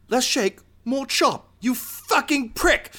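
high-pitched, exasperated kitchen rant; chef yelling. Acted. Zabrak chef to robot chopping onions, angry high yelling. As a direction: scold the useless helper in a high, angry voice. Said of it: "he's yelling at".

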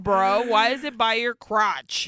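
loud, disgusted yell; shouting. Retold or imitated. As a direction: bark it at him, appalled. Teller yells at Armando.

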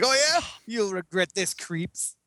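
squeaky indignant jab rising high; sneering young villain, lightly hammed; hammed-up little rogue's taunt; mock villain girl retort. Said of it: "She's like".

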